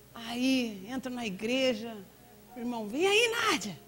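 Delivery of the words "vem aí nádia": high, teasing greeting voice; lightly mocking churchgoer; church brother. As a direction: chirp it like a nosy church brother. Church brother greets her at door.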